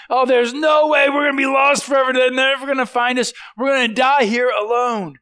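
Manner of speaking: panicked shouting, pitched high; freaking out. Retold or imitated. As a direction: yell it like a castaway losing his head. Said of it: "He's freaking out going".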